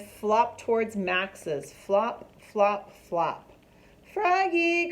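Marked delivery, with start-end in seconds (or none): 4.1-4.9 mom calls loud and high across the house; calling out. A narrator's reading. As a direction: call him from the kitchen. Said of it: "called his mom".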